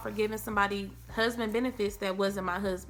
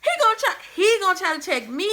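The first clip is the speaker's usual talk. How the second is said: mock angry quote; 5 semitones higher, 6 dB louder than usual. Retelling ex's angry threat.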